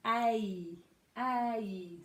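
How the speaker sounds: "A" drawn out as a gliding vowel; teacher modelling the long "A" glide; diphthong demo. Shown as a demonstration. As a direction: sound out "A" twice, separately and firmly. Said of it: "A, E, diphthong".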